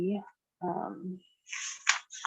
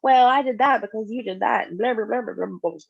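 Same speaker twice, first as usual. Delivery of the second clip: defensive retort; 4 semitones higher, 5 dB louder, faster than usual. Retold or imitated. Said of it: "you don't say".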